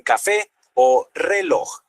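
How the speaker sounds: café and reloj slowly, each stressed on its last syllable; stress on final syllable. Shown as a demonstration. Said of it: "El énfasis va al final". (café y reloj lentos, con énfasis en la última sílaba)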